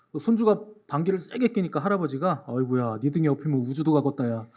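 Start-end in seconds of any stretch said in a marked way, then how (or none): 2.5-4.5 grandpa in Chungcheong dialect. Retold or imitated. Pastor voicing a Chungcheong grandpa's joke, in mild dialect. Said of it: "충청도식 화법의 특징".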